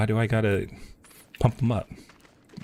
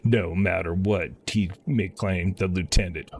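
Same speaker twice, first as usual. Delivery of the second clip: lightly voiced commander, a little lower and measured; earnest officer; 3 semitones lower than usual. A lightly voiced officer asking the hero to rally the troops, measured. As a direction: read it as a polite officer asking a favour. Reads officer's game dialogue.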